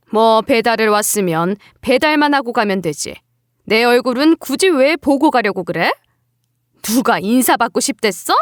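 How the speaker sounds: lightly voiced exasperated mother-in-law; a touch of sighing contempt; scornful mother-in-law. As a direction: pick at her with open dislike.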